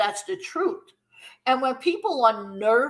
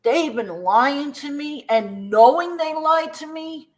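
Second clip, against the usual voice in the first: mock angry complaint; 3 dB louder than usual. Retelling fans who feel lied to about history, mildly indignant. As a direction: lean into the grievance, a touch indignant. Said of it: "some people are angry and say".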